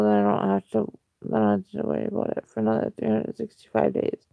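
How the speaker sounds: sleepy, heavy, slurred voice; tired and groggy, words running together. Real, not acted. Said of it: "I sound groggy".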